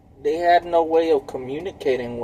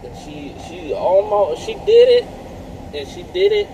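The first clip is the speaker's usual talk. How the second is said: high excited outburst; 5 dB louder than usual. Real, not acted. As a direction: burst out high and loud. Excited retelling of impersonation.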